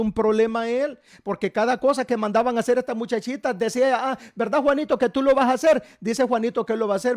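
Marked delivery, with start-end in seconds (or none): 4.1-5.8 taunting sister. Acted.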